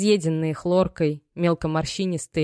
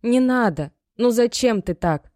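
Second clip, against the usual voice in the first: much higher and louder, tears in the voice; tearful plea; 6 semitones higher, 5 dB louder than usual. Acted. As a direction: Maya begging her mother to stop. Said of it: "со слезами в голосе взмолилась". (дочь со слезами молит мать, высоко и громче)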